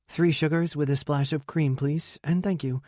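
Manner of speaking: hint of a polite female guest; polite coffee order. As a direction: give the order with a courteous lilt. Emily gives her coffee order.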